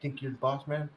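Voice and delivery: lightly voiced low impression of the friend; low mock of friend. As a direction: imitate him, low and muttered. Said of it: "He be like".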